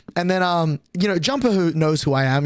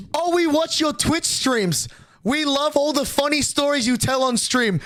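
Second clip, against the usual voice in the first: cheerful mom voice; 8 semitones higher than usual. Retold or imitated. Mother quoted cheerfully.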